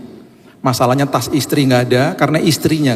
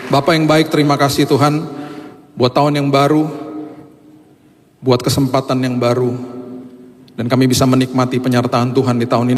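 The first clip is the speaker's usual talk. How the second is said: steady, earnest pastor's prayer. Acted. Pastor praying over the congregation for the new year, earnest and steady. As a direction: lead the congregation in thanks.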